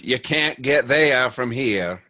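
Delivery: slow, hammed-up Maine accent; a friend from Maine, badly imitated. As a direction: Maine drawl done poorly and slowly. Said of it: "That's really bad Maine accent".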